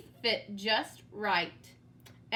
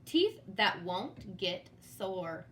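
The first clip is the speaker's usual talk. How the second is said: dentist; 4 semitones lower, slower than usual. Acted. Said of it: "the dentist called".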